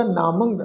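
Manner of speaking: ਨਾਮੰਗ with long "aa" and nasal "-ang"; nasal ending. Shown as a demonstration. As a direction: end ਨਾਮੰਗ through the nose. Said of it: "ਨਾਸਿਕ ਉਚਾਰਨ ਹੋਏਗਾ".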